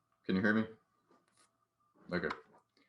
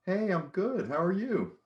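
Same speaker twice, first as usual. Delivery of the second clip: squeaky upbeat answer, pitched way up; high comic voice; 12 semitones higher than usual. Acted. Second comic character answers.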